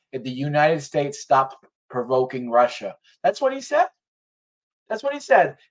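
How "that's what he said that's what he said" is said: higher, louder insistence; emphatic insistence. Real, not acted. Insisting to Brett what Putin said. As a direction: drive the point home twice.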